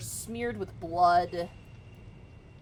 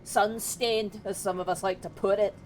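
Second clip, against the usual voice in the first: loud dismissive dwarf guard; scornful duergar guard; 3 semitones higher, 6 dB louder than usual. Acted. Duergar guard sneering at surface-dwelling party, loud.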